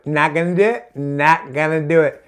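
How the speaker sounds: lightly done presidential parody, choppy catchphrase; George Bush via Dana Carvey. Acted. Comic dodging the accent, lightly parodying a president. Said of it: "George Bush, Dana Carvey. I'll do that one".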